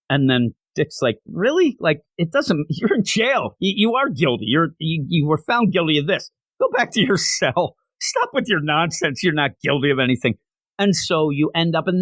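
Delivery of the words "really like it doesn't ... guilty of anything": higher-pitched mock disbelief, half laughing; incredulous retort. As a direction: act out an exasperated telling-off. Acted scornful retort to the prisoner.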